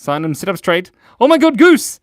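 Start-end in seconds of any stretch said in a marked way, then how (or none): 1.2-2.0 high, loud delighted greeting; excited squeal. Real, not acted. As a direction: greet a friend with a thrilled shout.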